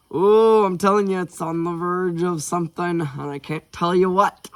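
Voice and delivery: giddy, high-pitched anticipation; giddy teasing. Real, not acted. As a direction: tease it, bursting to tell. Reader teases what is coming.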